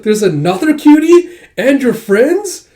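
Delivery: high, slow, gushing squeal; gushing over cuteness. Acted. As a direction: coo over a cute animal. Gushing over cute squirrel.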